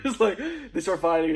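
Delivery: can barely get it out for laughing. Real, not acted. Friend recounting the funny Cap-versus-Cap fight, laughing.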